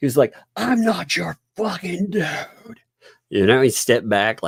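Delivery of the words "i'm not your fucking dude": screeching, very high-pitched, drawn-out scream. Retelling what a police officer screamed through the car window: imitating a screaming officer. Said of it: "He started screaming in the window".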